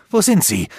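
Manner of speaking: insist, cutting her off; insistent demand. A narrator's reading. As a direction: Aldur insists on knowing where his friends are. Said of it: "verlangte Aldur dennoch zu wissen".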